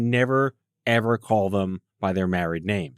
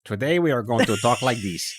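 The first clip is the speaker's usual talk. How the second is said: lightly stiff announcer talk; mild mock posh delivery; mock formal voice. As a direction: parody a stilted formal speaker. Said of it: "It's like, um".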